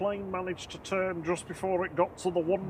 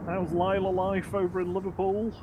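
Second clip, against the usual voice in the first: put-on Scouse accent; 5 semitones higher than usual. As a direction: play up a Scouse voice. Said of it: "the Scouse impression was, went down a treat".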